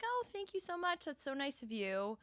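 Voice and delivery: high, soft thank-you, easing down; politely gracious, starting high and soft. Retold or imitated. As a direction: imitate a sweetly polite reply. Retelling her polite reply to compliment.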